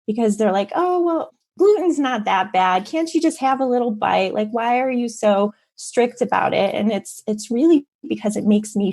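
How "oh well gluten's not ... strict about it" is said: lightly mock someone brushing off a concern; dismissive. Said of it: "very difficult when people dismiss it".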